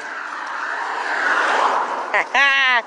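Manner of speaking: breath-heavy laughing fit; long laugh. Real, not acted. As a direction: laugh helplessly at the act. Laughs at the overdose act.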